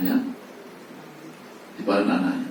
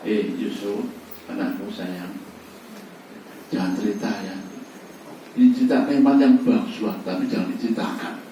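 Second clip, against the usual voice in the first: a lightly voiced tender father; gently tender father. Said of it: "intonasi yang lemah lembut".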